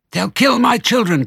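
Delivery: high, loud cry of fear; frightened cry. Acted. Missus Fox fearing for her children, high frightened cry. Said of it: "cried Missus Fox".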